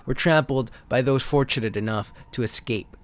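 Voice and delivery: dramatic narrator reading out card backs; steady storyteller read of alien invasion cards; card text reading. Acted. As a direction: read it like an old sci-fi trailer. Reads trading card text aloud.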